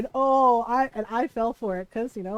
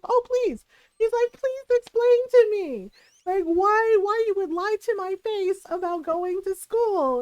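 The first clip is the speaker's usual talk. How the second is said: mock stern dad; 6 semitones higher than usual. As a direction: retell dad's scolding with raised voice. Angry dad scolds lying kid.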